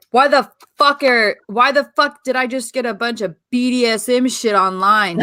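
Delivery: angry rant. Retold or imitated. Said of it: "she's all, T J comes in".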